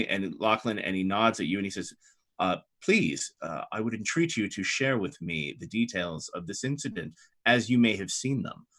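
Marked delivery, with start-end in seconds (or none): 2.4-8.7 softer, formal entreaty; gently request an account in measured, courtly words; courteous Hope Master. Acted. Hope Master asks Lachlan for details, softly courteous.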